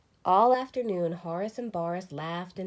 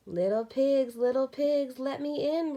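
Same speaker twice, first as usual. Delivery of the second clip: louder, higher hammed-up roar; wolf at the stick house, roaring; 7 semitones higher, 6 dB louder than usual. A narrator's reading. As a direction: roar it at the door. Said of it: "roared the wolf".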